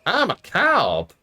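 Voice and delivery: high, loud mock announcement; mock self-declared cop. Imagining slapping on a uniform, a loud mock cop declaration. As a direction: push it up high and loud, stretching the last words. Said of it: "I was like".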